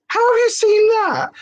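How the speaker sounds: high, slow, disbelieving question; baffled. Retold or imitated. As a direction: ask it like you can't believe it. Baffled at husband's TikTok feed.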